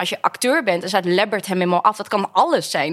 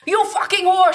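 higher, louder mock yell; imitating a yelling casting director; retold shouting; 10 semitones higher, 4 dB louder than usual. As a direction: shout it like an abusive pimp. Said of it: "schreeuwde hij".

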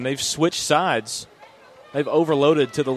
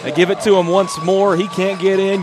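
excited recap; 4 semitones higher than usual. Real, not acted. Color man recapping the score.

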